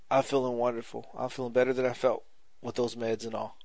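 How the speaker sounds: serious gratitude. Retold or imitated. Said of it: "And he was being serious".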